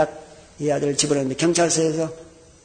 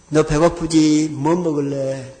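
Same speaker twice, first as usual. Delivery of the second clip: gentle coaxing; 2 semitones lower, slower than usual. Retold or imitated. Pastor coaching a father to speak gently, slow and kind. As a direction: coax him kindly and slowly. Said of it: "집사님, 오늘은 절대로".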